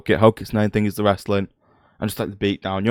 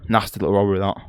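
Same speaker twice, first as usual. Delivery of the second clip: voice cracking; faster than usual. Real, not acted. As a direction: voice cracks mid-word. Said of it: "voice cracked again".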